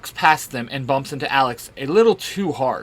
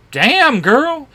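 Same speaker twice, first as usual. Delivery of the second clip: loud amazed exclamation; surprised shout; 11 semitones higher, 6 dB louder than usual. Acted. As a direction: shout it out in awe. Alex reacts to Rogue's throw.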